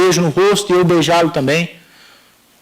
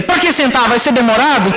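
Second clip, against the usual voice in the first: higher-pitched testy questions, acted out; impatient father; 3 semitones higher than usual. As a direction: imitate a father wanting it over quickly. Impatient father in retold dialogue.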